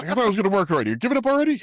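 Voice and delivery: mock whiny complaint. Mocking the actors in car.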